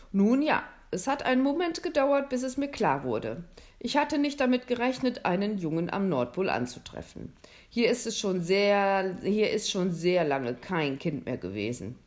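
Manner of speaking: lightly voiced Santa.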